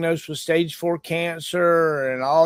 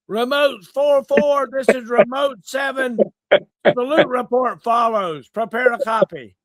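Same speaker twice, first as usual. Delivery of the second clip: over walkie talkie; 5 semitones higher than usual. Pretend. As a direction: bark a report over the radio. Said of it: "Be like".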